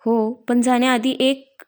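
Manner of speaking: slow, sly smiling hint; mild playful coaxing; smiling tease. Acted. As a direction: draw it out with a grin. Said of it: "तो गालामध्ये हसत म्हणाला".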